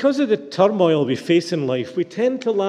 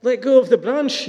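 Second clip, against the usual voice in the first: much higher, incredulous yell; distraught yell; 10 semitones higher, 4 dB louder than usual. A narrator's reading. Distraught man answering the voice, yelling in disbelief. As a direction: throw the words back in high alarm. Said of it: "yelled the distraught man".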